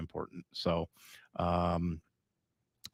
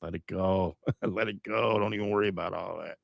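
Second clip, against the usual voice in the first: soothing mom; 6 dB quieter than usual. Retold or imitated. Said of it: "I'm like".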